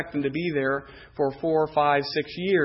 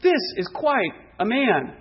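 impressed, drawn-out higher wow; admiring wonder; 4 semitones higher than usual. Acted. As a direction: marvel at him, voice lifted. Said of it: "He looked at David and said".

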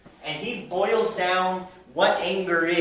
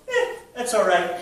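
mock indifferent brush-off, a little higher; indifferent shrug; 4 semitones higher, 4 dB louder than usual. Preacher imitating someone excusing hypocrisy within the church, indifferent. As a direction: shrug it off with a dismissive "eh". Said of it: "if you act with indifference".

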